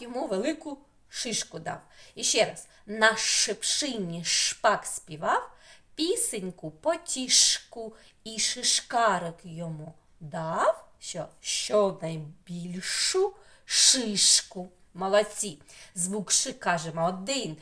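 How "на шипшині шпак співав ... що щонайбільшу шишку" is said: slow, deliberate verse with pauses between lines; children's rhyme recital. Shown as a demonstration. Teacher repeating the rhyme for children, slow measured recital. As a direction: recite it firmly, dwelling on the "ш" sounds.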